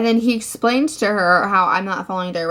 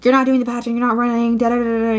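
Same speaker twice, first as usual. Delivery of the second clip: mock mom yelling; 3 semitones higher, 4 dB louder, faster than usual. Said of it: "yelling at me".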